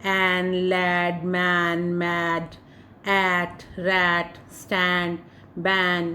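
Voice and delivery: एन, लैड very slowly stretched with an open ae; slow review of words. Shown as a demonstration. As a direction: read the ae word list slowly for the class. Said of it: "ए sound था, जैसे".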